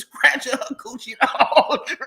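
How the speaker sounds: laughter swallowing the end of the line; cracking up. Real, not acted. Repeating the gossip to viewers, cracking up. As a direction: get through it while losing it laughing.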